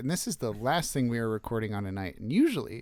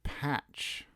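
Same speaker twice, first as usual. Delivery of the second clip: very slow, hushed radio-host read; hammed-up slow radio voice; much slower than usual. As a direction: draw out the beer name like a late-night DJ. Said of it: "in your most radio voice".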